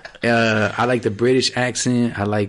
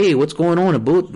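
higher-pitched mock Canadian accent; 5 semitones higher, 3 dB louder than usual. Shown as a demonstration. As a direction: imitate a Canadian, with "boot" for about. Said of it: "and they do say a boot".

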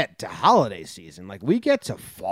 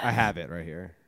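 unvoiced whisper, low; 8 semitones lower, 6 dB quieter than usual. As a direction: whisper it like a secret. Imitating movie line whispering.

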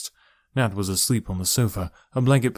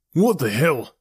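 higher-pitched, indignant shock; alarmed exclamation; startled outburst; 5 semitones higher, slower than usual. A narrator's reading. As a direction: react as if jolted awake. Uncle startled awake by intruders.

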